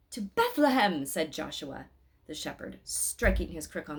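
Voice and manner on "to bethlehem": loud rallying call, pitched up. Acted. Shepherd rallying the pilgrims onward, loud call. Shepherd calls out striking crook.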